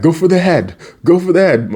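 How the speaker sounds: high-pitched mock command; acted urgent calling; imitated battle order. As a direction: call it out like a fighter to teammates. Acting Raph's battle order.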